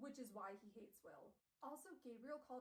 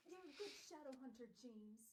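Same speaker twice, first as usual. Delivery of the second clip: Gabriel Lightwood; 3 semitones higher than usual. Acted. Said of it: "Gabriel's like".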